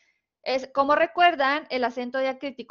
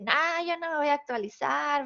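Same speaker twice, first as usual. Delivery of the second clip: mock tantrum refusal; 3 semitones higher than usual. Teacher mimicking someone who won't update spelling rules, mock tantrum. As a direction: play a mild mock tantrum. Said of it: "no es un berrinche de la chaviza".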